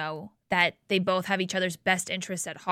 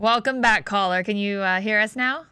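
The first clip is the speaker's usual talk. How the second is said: shouting into a phone; 2 semitones higher, 4 dB louder than usual. Real, not acted. Shouting into a bad phone line.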